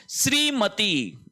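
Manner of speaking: श्रीमती said slowly with long ई; slow, careful. Shown as a demonstration. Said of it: "दोनों मात्राएं दीर्घ". (श्रीमती धीरे, दीर्घ ई)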